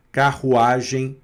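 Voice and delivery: slow "Carruagem" with guttural RR; throat R. Shown as a demonstration. Teacher likens French R to "Carruagem", slow with throat RR. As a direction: draw out "Carruagem", rasping the RR in the throat. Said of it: "na garganta, com o som do".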